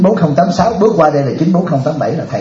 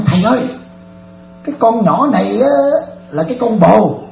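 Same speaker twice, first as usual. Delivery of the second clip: panicked plea; 6 semitones higher than usual. Retold or imitated. Bảo panicking to the monk.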